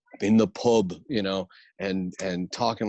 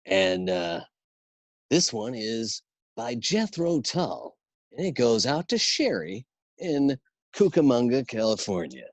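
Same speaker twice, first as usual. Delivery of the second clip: Casey Kasem. Acted. Host dedicating a song to a listener, light radio impression. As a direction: read out a radio dedication with measured pauses. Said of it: "he used to do America's Top Forty".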